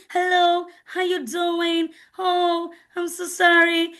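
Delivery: put-on high, drawn-out affected English accent; fake touched English. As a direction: imitate someone putting on touched English. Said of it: "you begin to fake your voice".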